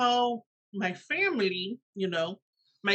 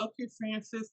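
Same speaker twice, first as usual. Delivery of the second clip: softer, reined-in self-talk; self-calming; 8 dB quieter than usual. Acted. Mother telling herself not to gush, acted self-calming. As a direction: drop the volume to steady yourself. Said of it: "keep your calm".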